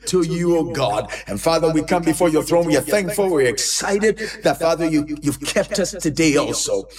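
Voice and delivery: continuous, flowing prayer with rhythmic repeats; earnest pastor's prayer in an unbroken cadence; fervent prayer. Real, not acted. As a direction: pray aloud for the congregation, pressing on phrase after phrase. Leads congregational prayer.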